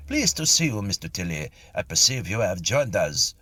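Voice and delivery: a touch of imperial greeting; lightly voiced Napoleon. Napoleon greeting Mister Tilly, lightly voiced grand welcome.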